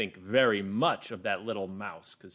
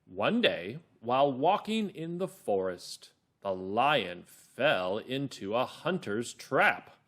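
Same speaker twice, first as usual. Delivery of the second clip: slow, measured storytelling; calm, clear narrator; 3 dB louder, slower than usual. Shown as a demonstration. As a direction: read it slowly to children, word by word. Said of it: "my narrator voice is calm and clear".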